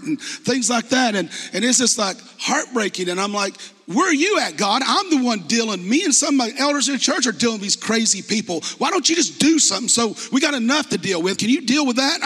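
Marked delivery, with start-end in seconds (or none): 3.8-12.2 mild frustrated plea. Retold or imitated. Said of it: "I didn't say it that way".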